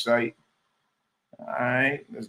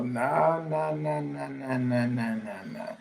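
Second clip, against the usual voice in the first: dismissive nah; 5 dB quieter, slower than usual. Real, not acted. Dismissing a chat claim.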